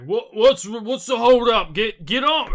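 high, loud, strained holler; alarmed shout. Acted. Guy coming round the corner sees it dropped, alarmed shout. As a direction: shout it in a panic, ending in a grunt.

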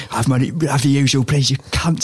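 fast, badly done Belfast accent; terrible Belfast accent. Imitating Higgins demanding his suite in a terrible Belfast accent. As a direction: mangle a Belfast accent on purpose. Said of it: "That's a terrible Belfast accent".

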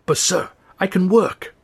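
lightly voiced desperate plea; pleading. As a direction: beg him not to throw you out. Ron pleads with waiter.

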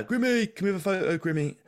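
high, eager fan shout; excited fan calling. Retold or imitated. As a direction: call out like a starstruck fan. Fans calling out to him.

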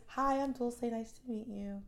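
polite composed greeting. Retold or imitated. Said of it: "But in real life, it's".

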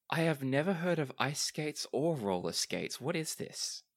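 lightly voiced, eager stranger; curious Lachlan. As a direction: ask with keen interest. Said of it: "Lachlan is looking ... extreme interest".

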